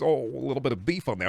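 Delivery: lightly voiced celebrity impression; joking, put-on halting film-star voice; Christopher Walken. Streamer explains it's no talking taco, light Walken impression. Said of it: "like a Christopher Walken taco".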